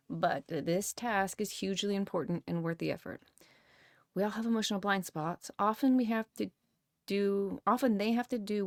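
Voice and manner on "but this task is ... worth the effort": whispered line from the book. Real, not acted. Host whispering the book's closing line. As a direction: read it under your breath.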